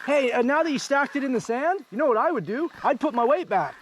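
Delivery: high-pitched imitation of a know-it-all rider; Mal Dalton. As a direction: pipe up high as the unasked adviser. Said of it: "Mal Dalton experience".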